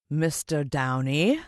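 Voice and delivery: slow, menacing villain greeting; drawn out like a smug sinister host. Acted. Mister Motcher greets the boy, slow and menacing.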